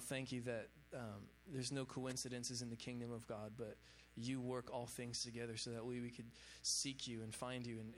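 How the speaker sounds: slightly low, subdued praying voice; prayer. Real, not acted. Preacher prays for the people gathered tonight, earnest prayer. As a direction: pray earnestly and evenly, a little subdued.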